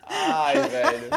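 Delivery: high burst of laughter; loud laughter. Real, not acted. Friends crack up at the story, laughing loudly.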